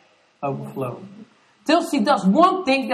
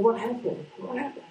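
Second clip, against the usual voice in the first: dazed whisper; 9 dB quieter than usual. Retold or imitated. Dazed after shell shock.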